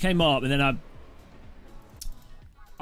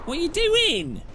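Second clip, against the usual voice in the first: startled outburst. Real, not acted. Rival car wrecks him.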